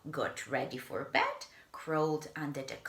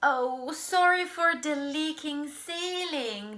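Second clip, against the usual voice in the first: higher, louder sheepish apology; apologetic bellhop; 11 semitones higher, 4 dB louder than usual. Acted. Bellhop apologizing for the leak, sheepish. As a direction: apologize brightly.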